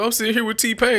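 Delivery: high, dismissive mock voice; mock famous singer. Imitating a famous singer dismissing a rapper.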